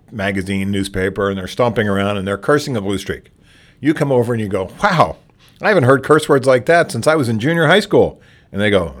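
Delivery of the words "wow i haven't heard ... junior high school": higher, wide-eyed mock amazement; surprised voice. Shown as a demonstration. Librarian feigning surprise at a cursing patron. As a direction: act impressed and startled by the cursing. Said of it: "ask them in kind of a surprised voice".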